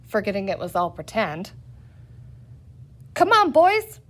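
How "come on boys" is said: high, loud rallying cry; rally the mob; cried out. A narrator's reading. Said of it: "cried one of the green men".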